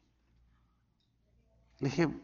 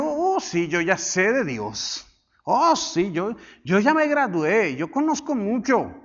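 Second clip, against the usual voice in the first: mock know-it-all; 3 semitones higher, slower than usual. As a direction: imitate someone smugly sure they know it all. Imita a quienes presumen saber. (imitando con presunción a un sabelotodo)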